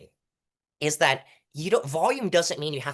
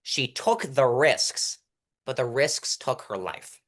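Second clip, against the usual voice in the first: slow deliberate read; slower than usual. Shown as a demonstration. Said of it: "It's basically".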